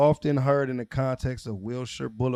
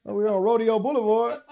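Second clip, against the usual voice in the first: high, loud, laughing "Rodeo" as ROH-dee-oh; laughing mock announcement; 9 semitones higher, 5 dB louder than usual. Joking with friends on street names, laughing mock announcement. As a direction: tease through laughter, "Rodeo" like the cowboy show.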